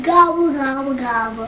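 put-on childish turkey gobble; playful turkey noise; mock turkey gobble.

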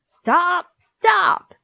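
high, loud teacher's command; urgent, escalating shout; shouted order. A narrator's reading. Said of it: "she ordered".

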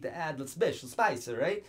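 jokey, badly faked Italian accent; terrible Italian accent. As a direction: slip into a clumsy Italian accent. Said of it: "It's a terrible Italian accent".

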